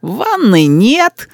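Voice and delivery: put-on slow, high grumbling child; complaining boy. A narrator's reading. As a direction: list the grievances like a little critic. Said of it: "продолжал Рис критику". (мальчик ворчит о деревне)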